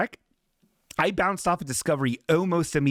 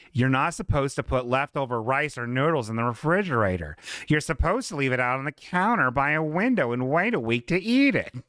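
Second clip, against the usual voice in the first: put-on voice. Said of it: "why I gave her that voice".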